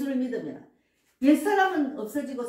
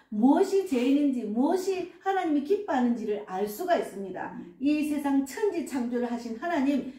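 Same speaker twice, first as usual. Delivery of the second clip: prayer voice. Acted. Pastor leads spoken prayer.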